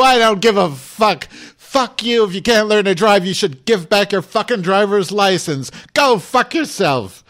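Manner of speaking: high raging shout, slowed on the curses; screaming. Retold or imitated. Cursing out the apologizing old man: raging shout. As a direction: unload on him. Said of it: "kept screaming at him".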